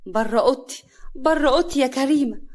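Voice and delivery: firm, rising insistence to leave; angry order. Acted. Hana throwing sister-in-law out of her room, angry. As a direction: order her out, getting sharper.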